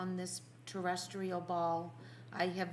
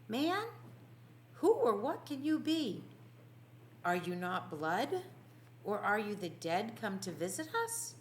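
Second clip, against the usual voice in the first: awed alarm; 3 semitones higher than usual. Acted. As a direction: recoil from a figure you think is a ghost. Peter faces a blood-caked figure.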